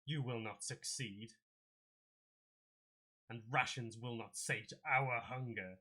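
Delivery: slow, heavy beast threat; a lightly voiced monster, slow and menacing; hint of a slow menacing beast; manticore voice. Manticore answers the party.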